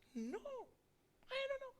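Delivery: high, bewildered little voice; confused newcomer. Acted. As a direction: play a lost soul who knows nothing. Thief answers about baptism. (suara tinggi bingung orang baru)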